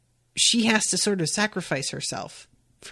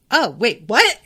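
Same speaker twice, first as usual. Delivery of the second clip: surprised; 3 semitones higher, 6 dB louder than usual. Retold or imitated. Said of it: "and is like".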